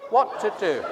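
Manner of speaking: put-on a light, laughing try at an Indian accent on "What to do?"; a tentative, self-mocking Indian accent on "What to do?". Showing the congregation the Indian accent for "What to do?". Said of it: "I can't do an Indian accent, but let's just try it".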